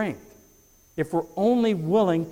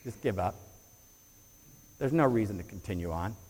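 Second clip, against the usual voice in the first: a soft, low murmur of doubt, much quieter; tempting little voice; 5 semitones lower, 7 dB quieter than usual. Pretend. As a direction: hush it like the inner voice that wants you to quit. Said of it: "That little voice that's".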